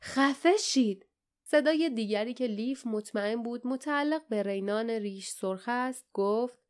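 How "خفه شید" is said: drawn-out, higher angry outburst; slow, irate yell, moderately loud; angry shout. A narrator's reading. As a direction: shout it back angrily, stretching the words. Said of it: "گلاتون با خشم فریاد زد".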